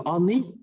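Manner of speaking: "honest" starting straight on the O vowel; silent H. Shown as a demonstration. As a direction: drop the H in "honest", like "on-ist". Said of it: "cái chữ H này là một âm câm". (đọc "honest" với âm H câm)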